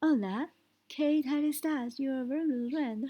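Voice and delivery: Spanish in an English accent. Shown as a demonstration. Teacher demonstrating before switching languages, English-accented Spanish. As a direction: greet in Spanish like an English speaker. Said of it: "but keep that accent".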